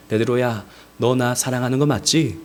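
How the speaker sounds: low-pitched, tender question; softly acted reassurance-seeking; gentle, unreproachful. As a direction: ask kindly, with no blame. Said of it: "예수님은 책망하지 않으셨어요".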